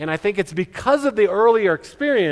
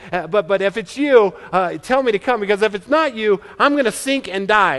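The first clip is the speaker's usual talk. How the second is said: lightly voiced anxious Peter, a bit higher and louder; voicing Peter; 4 semitones higher, 3 dB louder than usual. A hint of Peter asking Jesus from the boat. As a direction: play Peter nervously bargaining. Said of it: "Peter's like".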